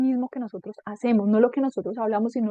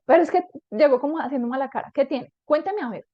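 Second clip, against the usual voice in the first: insistent, slightly raised questioning; mildly pushy parent, acted; pressuring parent; 3 semitones higher than usual. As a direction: keep prodding your child for an answer. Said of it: "de esa manera a presionar".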